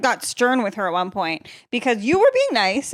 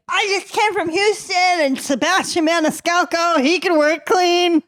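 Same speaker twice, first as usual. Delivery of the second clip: mock Houston fan; 8 semitones higher than usual. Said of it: "But she's like".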